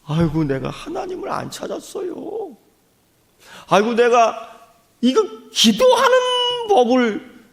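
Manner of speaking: half-crying prayer, pitch lifted; mock-weeping repentant prayer; tearful prayer. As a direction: plead through tears, then fall to a whisper. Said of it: "눈물이 나면서".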